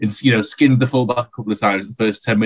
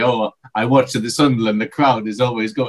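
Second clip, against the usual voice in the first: mock German accent that drifts toward Italian; lightly put-on German accent, sliding Italian; comedy German accent. Podcast host mimicking a new signing's interview, half-hearted German accent. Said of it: "that was more Italian, if anything".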